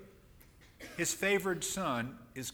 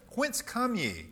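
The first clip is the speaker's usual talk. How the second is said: a touch of a stern governor's challenge, pitched higher and louder; mildly rough, higher and louder question; rough demand; 9 semitones higher, 5 dB louder, slower than usual. A narrator's reading. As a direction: call it out roughly, like a suspicious ruler. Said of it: "and spoke roughly unto them".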